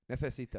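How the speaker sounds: imitated Spanish lisp on "Necesitas"; mock the lisped c and s in "Necesitas"; "Necesitas" with th-like sounds, lightly mocked; Castilian lisp. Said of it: "I hate the lisp".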